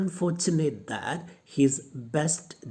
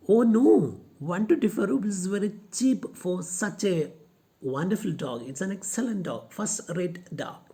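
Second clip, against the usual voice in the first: a touch of higher indignant Lomov; Lomov defensive; 5 semitones higher than usual. Retold or imitated. Teacher voicing Lomov defending his dog, lightly indignant. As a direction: defend the dog's worth.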